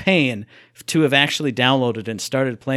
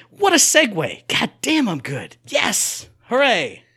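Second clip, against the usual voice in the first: gleeful, punched cheer for yourself; mock self-congratulation; 6 semitones higher, slower than usual. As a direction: celebrate your own cleverness, high then dropping. Mock celebration of own segue.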